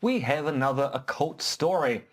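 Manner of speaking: deliberate newsreader cadence with lifted phrases; measured announcer delivery, falling at each close; news read. Acted. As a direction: read it out like a wry news bulletin. Reads a mock news item.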